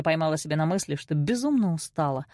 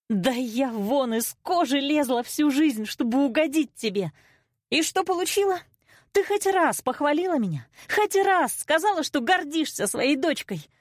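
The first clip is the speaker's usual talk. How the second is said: high, impassioned reproach; anguished outburst; 8 semitones higher than usual. A narrator's reading. Daughter wanting mother's praise, anguished outburst. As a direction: plead and accuse at a high pitch.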